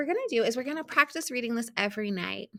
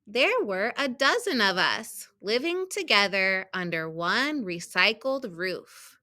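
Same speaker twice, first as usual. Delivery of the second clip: measured storybook reading with stressed key words; children's story read-aloud; slower than usual. A narrator's reading. Teacher reading a picture book to students, storybook read-aloud. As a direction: read it out carefully for young readers.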